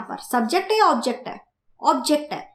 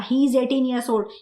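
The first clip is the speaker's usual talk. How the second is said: slow dictation; much slower than usual. Shown as a demonstration. Teacher dictating example sentence.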